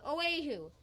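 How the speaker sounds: Oahu said as "oh-AY-hoo"; mispronounced Oahu. Acted. Husband ignoring wife's correction, Oahu mispronounced "oh-AY-hoo". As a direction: keep the wrong AY in Oahu. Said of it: "That's pronounced Oahu".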